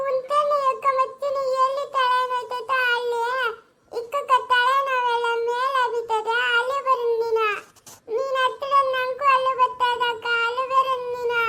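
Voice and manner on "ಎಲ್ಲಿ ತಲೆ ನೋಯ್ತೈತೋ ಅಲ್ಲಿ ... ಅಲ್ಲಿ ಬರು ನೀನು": crying. Acted. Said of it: "ಯಾಕಕ್ಕ ಅಲಿತಾ ಇದ್ಯಾ ನೀನು?".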